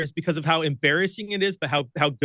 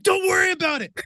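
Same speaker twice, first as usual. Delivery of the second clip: much higher, sheepish dismissal; evasive brush-off; 13 semitones higher than usual. Retold or imitated. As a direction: wave it off while embarrassed, pitched up. Brushing off Jason's question.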